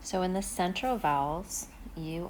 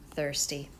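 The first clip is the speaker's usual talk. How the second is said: whispered model; 3 semitones lower than usual. Shown as a demonstration. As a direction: whisper "thirsty." with no voice. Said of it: "For vowel six, we have".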